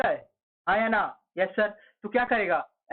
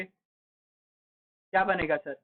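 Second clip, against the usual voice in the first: drawn-out question; 2 semitones lower, much slower than usual. Shown as a demonstration. Teacher to class, coaxing the answer, very slow drawn-out question. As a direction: stretch every word very slowly.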